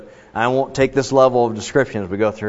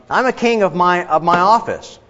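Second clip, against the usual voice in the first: a lightly raised, boastful king voice; mock proud king; 8 semitones higher, 3 dB louder than usual. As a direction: boast a little, like a pretend king. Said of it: "So I say".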